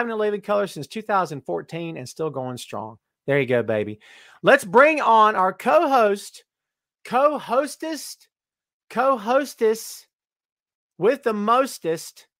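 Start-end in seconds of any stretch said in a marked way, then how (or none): 4.4-12.3 slow drawn-out ring announcer build; hammed-up slow announcement; announcer intro. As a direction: stretch each word like introducing a star. Announcing co-host slowly.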